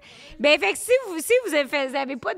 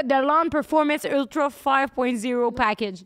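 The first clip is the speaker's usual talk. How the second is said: product name read out; slower than usual. Acted. Reading product name slowly.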